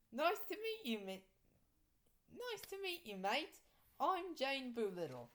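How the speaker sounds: bright Australian greeting, mate and all; Australian accent. Acted. Jungle ghoul greeting the new teacher, Australian accent. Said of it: "said in an Australian accent".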